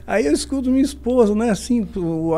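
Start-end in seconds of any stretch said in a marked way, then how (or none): none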